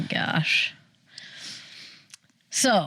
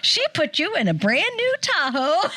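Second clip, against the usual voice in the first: laughing mock saleslady; 8 semitones higher than usual. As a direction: burst out laughing as the caller. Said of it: "and she goes".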